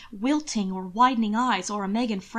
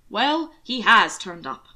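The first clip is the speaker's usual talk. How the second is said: louder, slower hearty approval; overly loud approval; 6 dB louder, slower than usual. Acted. Uncle Robert loudly breaks the silence. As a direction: boom out the approval. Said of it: "overly loud approval".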